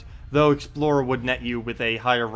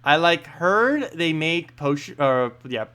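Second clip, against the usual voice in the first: spoiled princess; 4 semitones higher, slower than usual. Acted. Princess character dialogue.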